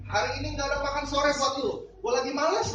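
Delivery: imitating a sulky maid; grumpy maid. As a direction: shoo the dog away. Maid kicks the dog.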